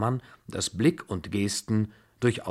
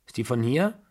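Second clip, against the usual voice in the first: put-on higher, louder, fast, scolding old-lady voice; imperious old grandmother; 4 semitones higher, 5 dB louder than usual. A narrator's reading. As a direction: rattle it off, bossy and scornful. Babuschka asks about Blanche. (herrische Großmutter, schnell und laut schimpfend)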